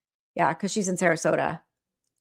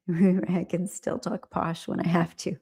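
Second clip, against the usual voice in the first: posh English accent. Shown as a demonstration. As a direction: play up your posh English voice with amusement. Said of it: "my posh accent".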